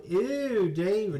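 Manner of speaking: high, stretched ew; mock Alexis whine; disgusted ew. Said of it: "if you go".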